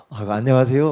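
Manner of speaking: friendly hello with a smile in the voice; smiling greeting. Retold or imitated. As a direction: greet them warmly, smiling. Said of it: "하고 웃으면서".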